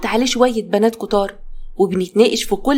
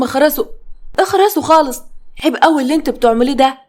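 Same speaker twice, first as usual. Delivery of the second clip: angry shout; 3 semitones higher, faster than usual. Acted. Husband scolding his mocking daughters, angry shout. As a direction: snap at them to shut up, then scold fast. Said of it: "مدحت جوزي اتعصب عليهم".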